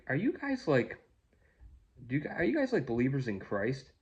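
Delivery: a hint of an eager young woman; voicing a young woman. Voicing Kim's question in story.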